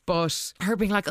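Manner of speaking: ordinary talk, nothing marked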